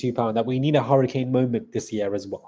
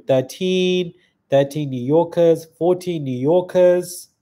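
higher, louder, slow counting; drawn-out excited tally, higher and louder; 5 semitones higher, 6 dB louder, slower than usual. Real, not acted. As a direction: count them up like a rising tally. Counting viewers from New York.

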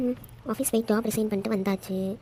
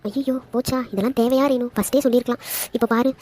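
dismayed, louder muttering to oneself; mind voice said aloud; 4 dB louder than usual. Acted. Sister frets to herself about being teased, loud mind voice. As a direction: think out loud in dismay, too loudly. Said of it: "mind வாய்ஸ்னு சத்தமா பேசுற".

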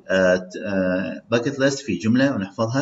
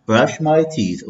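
slow, higher, my stressed; slow model phrase; 5 semitones higher, much slower than usual. Shown as a demonstration. Teacher modelling vocabulary for students to repeat, slow. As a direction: lead the drill, slow and lifted. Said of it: "read with me".

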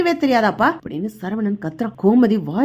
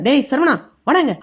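a touch of a father barking his son's name; lightly voiced stern summons; stern scolding call. Father angrily summons his son, mild stern call. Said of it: "அப்படின்னு அதட்டுறாரு".

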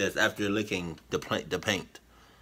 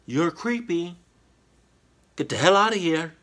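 high, indignant dismissal getting louder; indignant telling-off; 9 semitones higher, 6 dB louder than usual. Pretend. Reactor telling off the creepy boy, indignant. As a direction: send the creep packing, pitched up.

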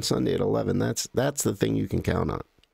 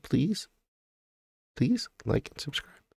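higher-pitched little plea; begging; 7 semitones higher, 3 dB quieter than usual. Real, not acted. Streamer asking viewers to like and subscribe, begging. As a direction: plead lightly, voice lifted. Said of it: "I don't like to beg".

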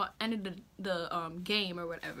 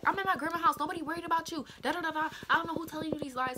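put-on high-pitched defensive boy voice; mock him in a higher voice; high, whiny denial of the lie; 8 semitones higher, 4 dB louder, faster than usual. Boy's mocking defensive voice.

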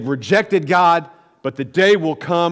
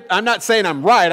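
ordinary talk

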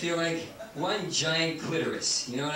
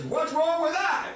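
mocking whine; 9 semitones higher, 3 dB louder than usual. Mocking a conservative's defense.

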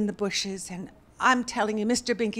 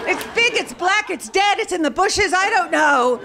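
fast, higher and louder, defensive rant; 5 semitones higher, 6 dB louder than usual. Retold or imitated. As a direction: rattle it off high and fast, on the defensive. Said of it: "I'll admit I got defensive".

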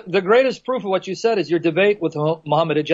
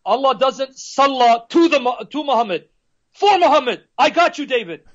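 Muhammad Hijab; 3 semitones higher than usual. Retold or imitated. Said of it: "Muhammad Hijab comes up and says".

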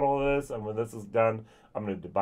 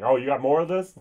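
eager; 4 semitones higher, 6 dB louder than usual. Retold or imitated. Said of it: "the Ardbeg ten was like".

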